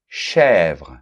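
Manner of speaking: chèvre with a wide open è. Shown as a demonstration. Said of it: "ça ouvre".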